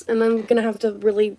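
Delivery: hushed whisper. Real, not acted. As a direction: drop to a whisper. Confiding to viewers.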